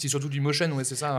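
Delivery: talking while eating; mouth full. Real, not acted. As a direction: speak through a bite of fruit salad. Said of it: "Pardon, je mange en même temps".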